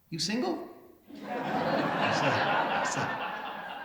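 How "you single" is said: higher, cheeky woman's voice with a laugh; imitating the woman, amused. The mayor quoting the woman who asks if he is single, higher and amused. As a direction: flirt it in her voice, pitched up.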